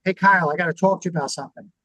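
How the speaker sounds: quick, blunt opener that puts him on guard; spring it on him fast and direct; blunt confrontation. Shown as a demonstration. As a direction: boss bluntly summoning an employee, fast and abrupt. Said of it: "if I just go up to him and go".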